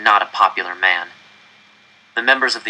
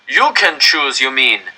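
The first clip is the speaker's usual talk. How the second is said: raised, incredulous shout from the crowd; indignant yell; 3 semitones higher, 4 dB louder, slower than usual. Acted. Crowd member shouting back at the director, indignant. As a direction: throw the question back bitterly. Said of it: "someone yelled".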